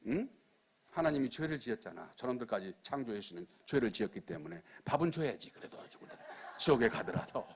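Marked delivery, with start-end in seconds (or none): none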